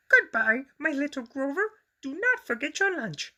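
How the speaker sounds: high, bright mother's voice calling goodbye; mommy calling out. A narrator's reading. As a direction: call it out sweetly as mommy. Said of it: "she called as she rushed off".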